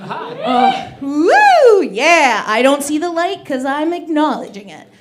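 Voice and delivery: hammed-up dad at full tilt; imitating dad. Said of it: "that's what my dad said".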